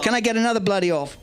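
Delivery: fast, shouted call to the crowd; rally the crowd with a quick shout. Shown as a demonstration. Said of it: "That's much better".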